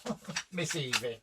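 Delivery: high excited mock voice, then a laugh; imitating him. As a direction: squeak it out like an eager fan. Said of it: "it was like".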